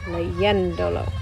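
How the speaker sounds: "leyéndolo" slowly, stressed on YEN; accent on the E. Shown as a demonstration. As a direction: hold the stress on the second syllable of "leyéndolo". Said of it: "So that's what I did here".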